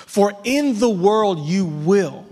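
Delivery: slow, weighty "you will"; definitive emphasis. Shown as a demonstration. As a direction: land "you will" with certainty. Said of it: "notice the definitive language".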